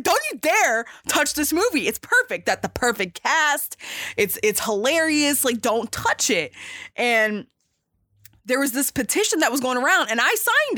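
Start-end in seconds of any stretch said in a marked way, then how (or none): 0.0-6.5 indignant, higher-pitched protest; a heated fan warning them off, retold; pissed-off retelling. Fan telling the studio off over a remake, indignant. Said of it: "I was pissed. I was like".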